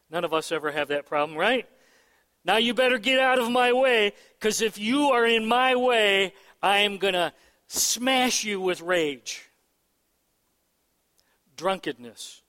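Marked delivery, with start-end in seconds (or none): 2.4-9.5 mock rage. Voicing an enraged person.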